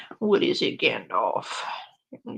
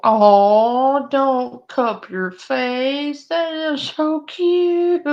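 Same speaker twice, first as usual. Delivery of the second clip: gushing; 4 semitones higher, 5 dB louder, much slower than usual. Real, not acted. Gushing over the dog.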